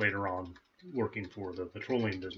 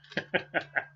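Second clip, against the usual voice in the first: maniacal laugh; 6 semitones higher than usual. Shown as a demonstration. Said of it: "And my maniacal laugh".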